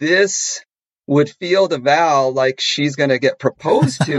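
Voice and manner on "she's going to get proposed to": normal talking voice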